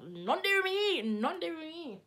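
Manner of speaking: high, loud sing-song denial; mock innocent disclaimer. Friends disowning the unpaid bill, mock innocent and high. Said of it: "we were all sitting there like".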